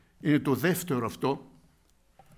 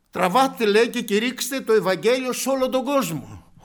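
loud, high, fervent sermon voice; preaching at full force; 9 semitones higher, 13 dB louder than usual. Acted. Preacher telling the congregation of the rich man, fervent loud preaching. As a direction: preach it out to the whole church. Quoting Christ's command.

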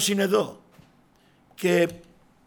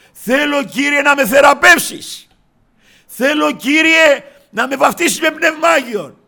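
loud, high, crying out to the Lord; a believer crying out his plea to the Lord; fervent pleading cry; 8 semitones higher, 10 dB louder than usual. Acted. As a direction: beg with the whole voice, louder and higher.

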